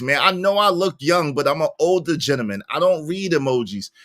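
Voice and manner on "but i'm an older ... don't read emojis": ordinary delivery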